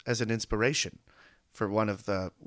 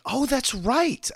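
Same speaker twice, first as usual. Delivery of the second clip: high, slow "oh" of remembering; sudden recognition; 13 semitones higher, 7 dB louder, much slower than usual. Retold or imitated. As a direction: realize it all at once, drawn out. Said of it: "I was like".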